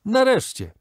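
sharp rise on nareszcie, relieved; called out. A narrator's reading. Narrator greeting the late host, a relieved call. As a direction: call it out as he finally arrives. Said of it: "zawołałem".

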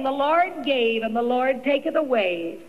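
slow, low, stiff words of faith; stiff-lipped recitation. Retold or imitated. Widow at husband's deathbed, slow stiff scripture. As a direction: force the scripture out slowly through grief. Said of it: "my stiff lips saying".

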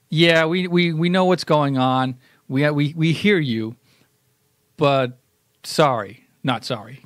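slow, mock-placating brush-off; backhanded reply. A show mock-answering critics with a backhanded shrug. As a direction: say it like a sly non-apology. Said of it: "kind of a backhanded".

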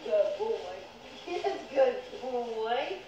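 drawn-out cooing over a good dog; doting pet praise. Real, not acted. Owner praising Leonard the dog, slow doting coo. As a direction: stretch the praise out slowly, fondly.

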